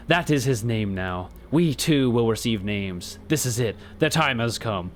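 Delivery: solemn cultist leader. Acted. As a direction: intone it like a gloomy preacher of death. Reads cultist NPC dialogue.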